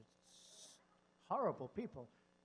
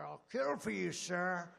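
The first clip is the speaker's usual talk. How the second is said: louder, firm pledge; mock soldier vow; 5 dB louder, slower than usual. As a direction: bark the loyalty vow. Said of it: "What's your name, Sergeant".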